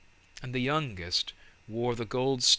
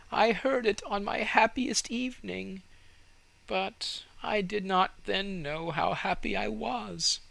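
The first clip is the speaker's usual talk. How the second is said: put-on high, dreamy voice of the old fir tree; a raised, far-off voice, longing for the past; wistful fir tree; 10 semitones higher than usual. A narrator's reading.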